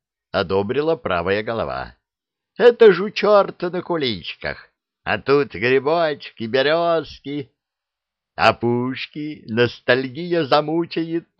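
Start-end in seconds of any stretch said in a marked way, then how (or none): 2.6-11.3 high, eager monster voice; a high beast getting wistful; dragon head. A narrator's reading. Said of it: "согласилась левая".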